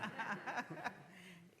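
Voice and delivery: a bright, high burst of laughter; real laugh. Real, not acted. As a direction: let a real laugh out at the joke. Reacts to the London joke.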